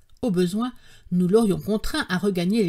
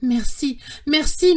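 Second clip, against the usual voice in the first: mild, higher exclamation; crying out thanks; 6 semitones higher, 4 dB louder, slower than usual. A narrator's reading. Parched narrator thanks his uncle, crying out. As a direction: cry out your thanks. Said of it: "m'écriai-je".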